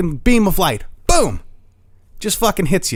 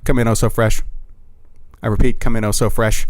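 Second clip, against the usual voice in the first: much lower voice, like a radio call from above; alien radio voice; 10 semitones lower than usual. Pretend. Alien hailing DJ Oh So Fresh from the sky, low radio call. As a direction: call him in like a spaceship radio operator. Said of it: "you just hear this voice like".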